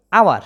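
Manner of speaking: আওয়ার starting on the vowel, h silent; short falling answer, আওয়ার without h; correct pronunciation. Shown as a demonstration. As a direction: model আওয়ার as "awar". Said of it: "উচ্চারণটা কি হইতেছে".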